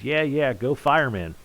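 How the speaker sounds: mildly upbeat cheer read from chat; a touch of rooting energy; enthusiastic reading. Acted. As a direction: read it as a lightly keen cheer. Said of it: "if that's enthusiastic".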